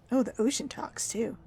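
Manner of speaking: whisper. Real, not acted. Hushed reaction to the game.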